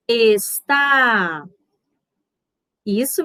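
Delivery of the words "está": Está with the final TÁ held long; teacher repeating es-TÁÁ; stress on last syllable. Shown as a demonstration. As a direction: lengthen the TÁ in Está. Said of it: "com mais força do que as outras".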